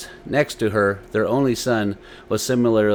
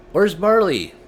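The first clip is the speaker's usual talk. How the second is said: higher, louder anxious question; worried father; 9 semitones higher, 6 dB louder than usual. A narrator's reading. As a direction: call for the missing dog. Father asks about dog.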